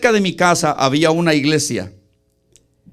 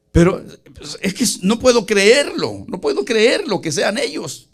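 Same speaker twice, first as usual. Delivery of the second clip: protesta incrédula relatada; 3 semitones higher than usual. Retold or imitated. Relata su protesta incrédula ante Dios.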